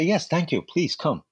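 eager yes. Retold or imitated. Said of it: "I was so excited".

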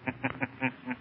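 soft, sinister chuckle; Shadow's laugh. Pretend. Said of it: "is the Shadow".

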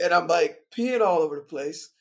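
laughing through the words; loud, amused retelling; telling an embarrassing bit while laughing. Real, not acted.

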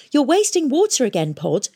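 put-on high, scornful girl's voice; sneering girl apprentice. A narrator's reading. Girl apprentice mocking Pod for wasting water, scornful. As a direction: scold him with contempt.

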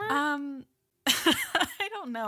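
slow, giggly, can't stop laughing; laughing through it, flustered; nervous laughter. Real, not acted. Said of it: "You sure you don't wanna start over?".

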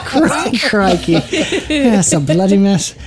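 hammed-up Aussie exclamation; joking Australian impression; Australian accent. Shown as a demonstration. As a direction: try an Australian accent, amused. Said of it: "Of course, Dan can do one".

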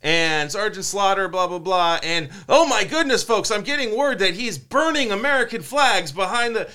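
hyping the crowd like a TV wrestling host; Mean Gene. Retold or imitated. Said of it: "Mean Gene was like".

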